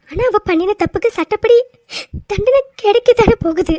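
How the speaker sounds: teary, gentle appeal; tearful reasoning. Acted. Wife to angry husband, tearful. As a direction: reason with him through tears.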